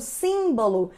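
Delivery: "símbolo" with the first I held and stressed; sharp I vowel. Shown as a demonstration. Teacher repeating the accented word for students, sharp stressed I. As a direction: lean on the acute I that opens "símbolo". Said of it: "este I bem agudo ainda".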